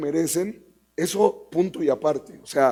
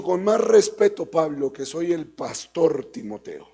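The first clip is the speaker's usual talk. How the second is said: huffy pastor. Retold or imitated. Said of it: "pastor medio Lorenzo, medio deschavetado".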